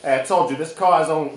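a hammed-up New Jersey car buyer; Jersey accent. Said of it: "that sounds Jersey".

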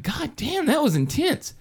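high, stunned waking reaction; acting out waking from a nightmare; retold stunned relief.

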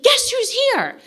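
high, loud, singsong tease; excited teasing friend. Retold or imitated. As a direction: tease her with the big news. Girlfriend runs out teasing.

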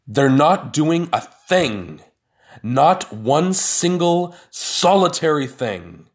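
loud, high exclaiming in disbelief; can't believe what you're saying. A narrator's reading. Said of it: "exclaimed in disbelief".

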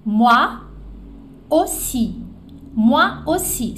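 moi aussi slowly, aussi as OH-SEE; drawn-out model of moi aussi; French moi aussi. Shown as a demonstration. Teacher modelling moi aussi. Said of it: "Eu também".

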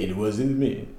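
A singer's denial. Retold or imitated. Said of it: "I'm not that singer".

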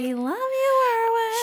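high put-on voice; lightly mock the friend's sweet line; imitating friend. Imitating Erwin at the movie, high voice. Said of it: "Erwin was just like".

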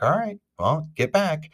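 high, loud call to step back; excited warning. Retold or imitated. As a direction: warn your buddies off before the big pull. About to yank the fish out.

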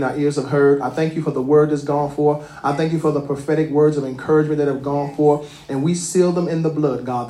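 fervent church prayer; preacher leading a closing prayer. Acted. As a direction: pray over the congregation, earnest and steady. Pastor leads closing prayer.

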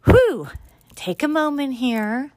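catching breath after a strong sip; exhale, recovering from the burn; strong drink gasp. Real, not acted. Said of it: "That packed a punch".

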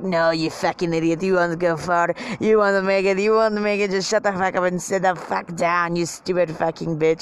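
put-on lightly accented inner bully; a hint of a sneering French heckler; self-destructive inner voice. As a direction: berate yourself as a little inner critic. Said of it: "the self-destructive part of me is like".

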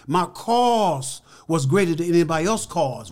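slow, each word weighted, preacher-style; slow emphatic point. Real, not acted. Telling the interviewer why he really won, slow and weighty. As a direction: land it slowly like a sermon.

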